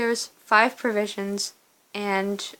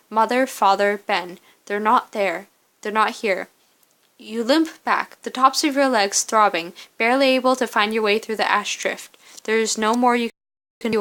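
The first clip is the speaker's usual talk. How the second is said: measured second-person story narration. Acted. Narrator telling the player of a lone walk through ash, story narration. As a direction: read the story out with steady, careful phrasing. Reads game's story aloud.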